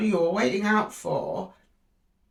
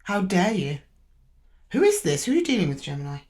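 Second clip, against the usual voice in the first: indignant. Retold or imitated. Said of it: "the person you're talking to is like".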